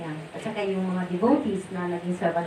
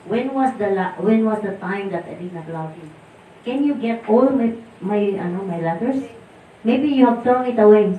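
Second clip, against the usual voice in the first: louder, a touch of stern scolding; mild retold anger; 7 dB louder than usual. Guru scolding the couple for doubting his love, mildly louder. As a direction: scold them gently, hurt and firm. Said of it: "nagalit siya sa amin".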